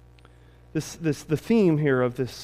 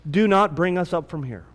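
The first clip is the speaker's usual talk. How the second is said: measured, solemn Bible reading, slowing at the pleas; scripture reading. Acted. Pastor reads scripture to the church, solemn and measured. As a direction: read the passage to the congregation with gravity. Reads the Exodus passage aloud.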